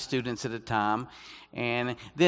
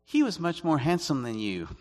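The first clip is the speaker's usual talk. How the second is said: higher voice dropping to a matter-of-fact tone; Chinese English teacher; 4 semitones higher than usual. Retold or imitated. Chinese teacher comparing visitor to her friend, mock blunt remark. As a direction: imitate her delivering the blunt follow-up. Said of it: "And the English teacher came to me".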